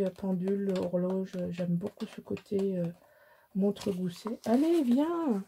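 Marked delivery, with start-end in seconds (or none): 4.4-5.4 high, sing-song call to come along; calling someone to come along, high and coaxing. Real, not acted. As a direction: coax him over in a lifted voice. Calling Léon away.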